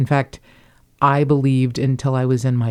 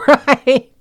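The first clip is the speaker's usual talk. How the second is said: emphatic agreement; 11 semitones higher, 8 dB louder than usual. Real, not acted. Laughing agreement at whitey joke.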